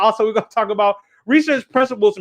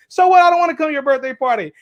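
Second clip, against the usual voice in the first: put-on defiant child retort; 4 semitones higher, faster than usual. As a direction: throw it back at her. Acting out kids' quarrel.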